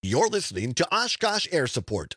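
radio station ID; station ID read. Acted. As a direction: announce the station.

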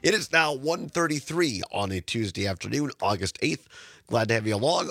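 hoarse, raspy throat from sinus trouble. Real, not acted. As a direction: talk through a rough, raspy throat. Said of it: "Apologize again for the raspy voice".

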